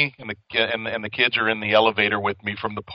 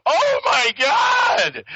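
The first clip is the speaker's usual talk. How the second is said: shocked gasp; much slower than usual. Retold or imitated. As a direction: gasp it out as if scandalised. Wife reacting to the joke.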